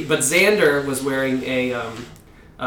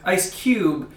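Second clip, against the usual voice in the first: "Ice Cube" stretched slowly with a laugh and a rising "Ice"; random emphasis; 3 semitones higher than usual. Retold or imitated. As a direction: drag out "Ice Cube", teasing and slow. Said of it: "Stop saying that".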